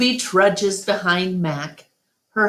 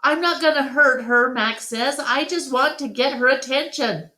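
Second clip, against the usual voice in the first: defensive; 9 semitones higher, faster than usual. A narrator's reading. Mac defends himself.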